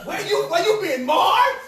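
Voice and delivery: high, loud disbelieving question; mock incredulity. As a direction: climb to a loud, baffled punchline. Acted incredulous question from the enemy.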